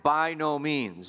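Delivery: slow, weighty stress on every word of "by no means"; emphatic. Acted. Preacher voices Paul's answer to the objection, emphatic. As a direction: draw out "by no means" firmly. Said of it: "with an emphatic".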